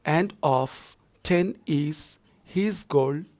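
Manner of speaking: slow, pausing reading of the verse; poem recitation. Shown as a demonstration. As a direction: read slowly, phrase by phrase. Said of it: "moving forward".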